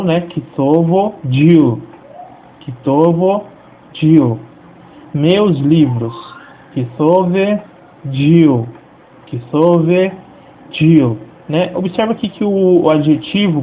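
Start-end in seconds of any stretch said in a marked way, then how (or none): 0.2-11.7 slow, deliberate Aramaic kitovo dil and kitove dil; careful teacher reading of kitovo dil, kitove dil; model pronunciation. Shown as a demonstration. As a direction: say each word slowly for students. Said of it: "eu falo".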